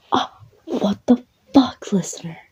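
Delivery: high, stunned outburst after a punch; shocked outrage. Acted. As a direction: react in outraged shock to being hit. Just punched across the face.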